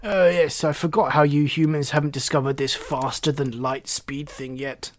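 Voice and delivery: mildly scornful frog, loud opening that tails off; condescend, leaning heavily on the opening words; sneering. Acted. Frog looks down on human technology, sneering. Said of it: "Reginald sneered".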